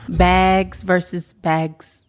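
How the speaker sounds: bags said slowly, two ways; slow careful contrast of "bags" versus "bags"; two pronunciations of bags. Shown as a demonstration. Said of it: "I don't even know how to pronounce it".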